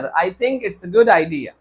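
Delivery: very slow model sentence; slow corrected example. Shown as a demonstration. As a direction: model the fix slowly. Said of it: "No sir".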